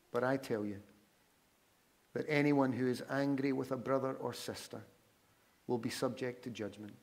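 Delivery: measured reading with long pauses; slow scripture reading. Real, not acted. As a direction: read Scripture aloud deliberately, leaving room to reflect. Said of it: "I'm just gonna read them slowly, with pauses in between".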